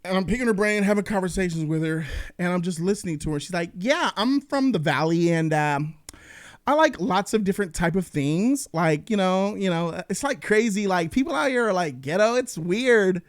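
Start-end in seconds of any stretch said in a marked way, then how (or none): 3.8-13.2 lightly imitated Valley girl talk; white Valley-girl accent. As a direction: put on a mild Valley-girl lilt. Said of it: "talk like a white girl".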